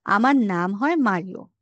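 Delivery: slow statement, "Mario" dropping at the end; falling statement tune. Shown as a demonstration. Teacher showing learners how a statement sounds, pitch falling at the end of "Mario". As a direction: let "Mario" fall to close the sentence. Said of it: "সুরটা শেষের দিকে নিচা হয়ে থাকবে".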